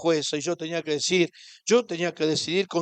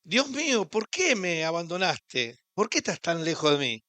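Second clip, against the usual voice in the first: anguished cry. Acted. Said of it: "él se preguntaba".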